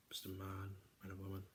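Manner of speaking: hushed comic aside; whispered aside. Pretend. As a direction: drop it to a sly whisper.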